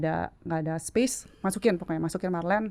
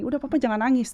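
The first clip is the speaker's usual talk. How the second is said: higher-pitched, mildly bold plea; lightly emphatic comforting of a parent; firm, outspoken reassurance; 5 semitones higher than usual. Retold or imitated. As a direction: retell a brave call to stop crying. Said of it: "langsung dengan lantangnya ngomong gini".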